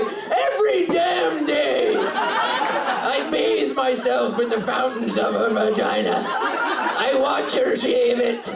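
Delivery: slow, proclaiming mock Scottish accent. Comic voices a boyfriend boasting from a chair, Scottish accent. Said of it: "giving him a Scottish accent".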